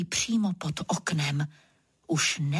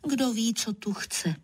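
plain reading voice

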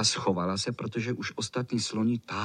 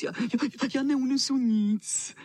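put-on high, joyful cry, the girl triumphant; rejoicing. A narrator's reading. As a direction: burst out high with glee, stretching the end. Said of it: "zajásala Karkulka".

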